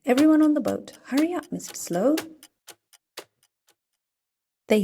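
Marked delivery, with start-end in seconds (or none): 0.0-2.2 high, louder urgent call; hurrying call. Acted. Mister Busy calling everyone onto the boat loudly. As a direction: hustle them onto the boat.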